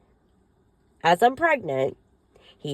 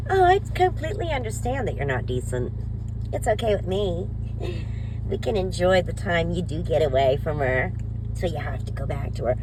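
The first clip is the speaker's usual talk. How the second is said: mocking the other woman. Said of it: "But she was told".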